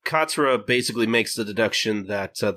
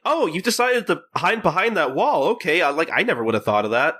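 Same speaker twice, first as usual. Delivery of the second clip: mock sarcasm; 6 semitones higher than usual. Katsura sarcastic.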